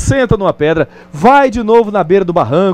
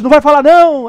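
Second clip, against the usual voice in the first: put-on higher, louder shout of a boy; child's shout; 8 semitones higher, 4 dB louder than usual. Annoyed boy shouts at the echo in the mountains. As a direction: yell it like an offended kid. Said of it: "ele grita novamente".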